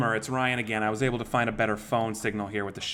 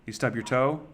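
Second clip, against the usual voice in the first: female voice changer. Acted. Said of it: "let me use female voice".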